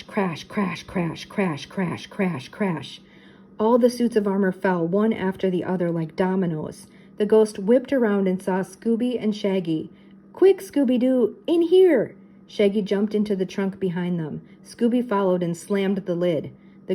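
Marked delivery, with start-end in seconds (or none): 0.0-3.0 evenly repeated falling tones; toppling like dominoes, one beat each; chain of crashes. A narrator's reading. Narrator imitates armour toppling in series. 10.3-12.1 high, building louder to the end; panicked, raised-voice command; urgent call. A narrator's reading. Shaggy urgently calls his friend.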